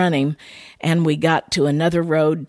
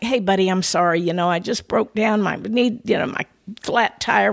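imitating a casual, friendly plea; mock-apologetic, slightly raised voice; 2 semitones higher than usual. Stranded driver asking a buddy for help, friendly apologetic. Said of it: "wasn't said in a way like".

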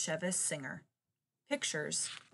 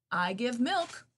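loud, high mooing boast; mooing cow; 5 semitones higher, 5 dB louder, slower than usual. Acted. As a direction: moo the words like a cow. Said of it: "mooed the cow".

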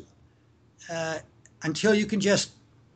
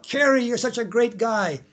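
yelling out; 4 semitones higher than usual. Retold or imitated. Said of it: "you yell out".

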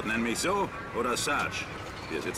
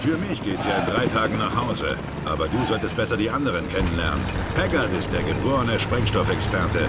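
louder, raised over gunfire; calling over noise; 8 dB louder than usual. Acted. Sergeant briefing new recruit over gunfire, calling out. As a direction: make yourself heard over the din.

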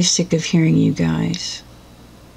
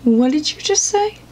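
indignant disbelief; 4 semitones higher, 4 dB quieter than usual. Acted. Outraged at advice.

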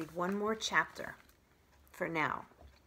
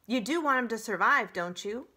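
fast, loud, pressing; pressing goose; 3 semitones higher, 7 dB louder than usual. Acted. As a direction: press the point firmly.

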